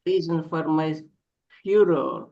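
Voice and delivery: lyrical, longing poem reading; yearning poem recitation. Acted. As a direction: recite it like a lament to a lost love. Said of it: "can we call upon you to read a poem".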